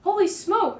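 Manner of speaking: shocked gasp of surprise. A narrator's reading. Beach attendant gasping at the strange creature. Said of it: "one of them gasped".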